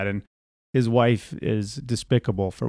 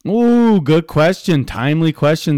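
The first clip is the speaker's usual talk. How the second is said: louder, higher over-eager host reply; hammed-up enthusiastic host, louder; radio host; 6 semitones higher, 8 dB louder than usual. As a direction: gush over the question like a talk-radio host. Mock host answers the caller.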